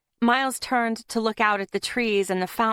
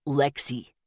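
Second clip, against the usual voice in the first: barked; 6 semitones lower than usual. A narrator's reading. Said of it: "Zeke all but barked".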